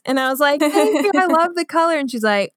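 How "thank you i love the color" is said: high-pitched, sweet thanks; polite grateful thanks. Retold or imitated. Shopper thanking an admiring stranger, high polite voice. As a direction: thank them in a much higher voice.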